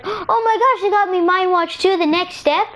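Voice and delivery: high, gushing gift reaction; thrilled delight. Acted. Girl opening the same game present, thrilled delight.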